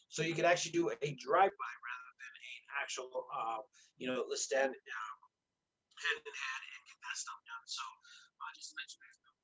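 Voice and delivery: tinny, metallic sound; tin can audio. Real, not acted. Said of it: "Your audio's gone into a tin can again".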